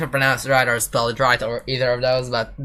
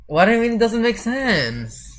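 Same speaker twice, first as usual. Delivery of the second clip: high, incredulous "What do you mean"; indignant disbelief; 10 semitones higher than usual. Real, not acted. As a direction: stretch out the outrage. French friend says sentence senseless.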